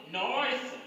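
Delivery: lightly put-on Minas Gerais "Nossa"; imitating a mineiro's way of talking; imitated mineiro accent. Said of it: "Ele fala assim".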